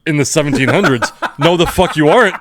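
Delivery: laughing retort. Retold or imitated. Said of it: "I was like".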